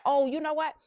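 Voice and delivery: loud, high burst of inspiration; acted-out eureka moment; sudden idea. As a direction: pipe up as if an idea just struck.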